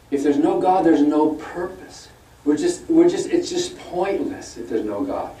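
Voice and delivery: slow, earnest mock pleading; a hint of an earnest apologist; mimicking a debate opponent. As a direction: put on the opponent's pious tone, drawn out. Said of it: "will say".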